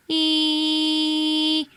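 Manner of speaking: pinched, closed-throat E; narrow closed E. Shown as a demonstration. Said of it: "I'm having my back throat".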